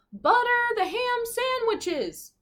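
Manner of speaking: high, slow, squeaky voice; misheard order. Acted. Crew hearing the captain's order wrong, high and slow. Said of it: "they'd hear".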